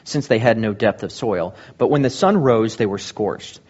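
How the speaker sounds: measured Bible reading, rising to a call at the end; scripture reading. Acted. Pastor reading the parable of the sower to the congregation, solemnly.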